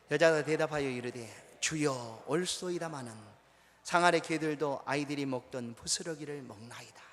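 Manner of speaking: slow, measured recitation aloud; scripture reading. Real, not acted. Pastor reads the verse together with the congregation, measured recitation. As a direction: lead a congregation through the verse, drawing out the phrases. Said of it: "한번 읽어보겠습니다".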